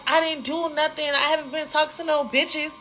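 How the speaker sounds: high-pitched mock protest; defensive denial. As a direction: imitate a boyfriend pleading innocence. Boyfriend's defensive denial acted out.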